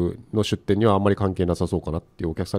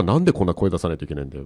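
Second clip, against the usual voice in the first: reluctant grumble; 3 semitones lower, faster than usual. Retold or imitated. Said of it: "みたいな感じで".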